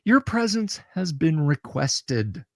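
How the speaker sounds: slow, musical mechanical voice; robot voice. Acted. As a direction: speak like a singing machine. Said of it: "in its musical, mechanical voice says".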